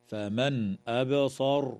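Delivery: نون of فمن pronounced fully before أبصر with a bounced باء; clear noon. Shown as a demonstration. Teacher showing izhar to students, slow chant. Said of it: "إظهار حلقي للنون الساكنة".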